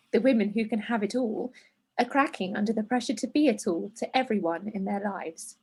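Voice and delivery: measured, understated reading voice; letter read aloud. A narrator's reading. Presenter reading a letter to hormones, measured. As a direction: read it evenly, as a written letter.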